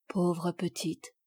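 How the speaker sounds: put-on softly pitying the orphan girl; tender pity. Father moved at seeing the orphan Sophie, soft and slow.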